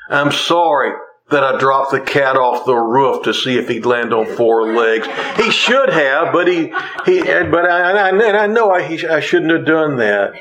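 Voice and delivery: rising, tripping over the words in comic panic; a joking, flustered confession about the cat; flustered mock apology. Shown as a demonstration. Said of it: "We apologize for specifics".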